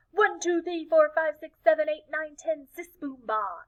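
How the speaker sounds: high, brisk counting chant; second team counting up their cheer. Acted. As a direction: rattle off the numbers.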